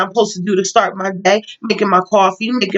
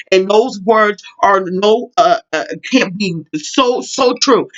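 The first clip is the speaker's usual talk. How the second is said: halting false starts with filler sounds; stumbling over words; slower than usual. Real, not acted. Vlogger losing her thread as examples crowd in, stumbling. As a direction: trip over the words, searching for them. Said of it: "I'm stumbling over my words".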